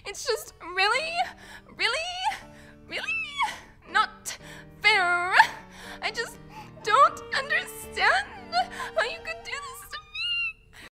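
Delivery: high-pitched sobbing, broken by gasps; tearful protest. Acted. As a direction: wail it in halting, crying bursts. Acted tearful complaint in demo.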